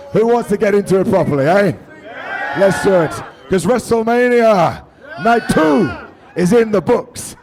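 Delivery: hype. Real, not acted. Hyping the crowd for show.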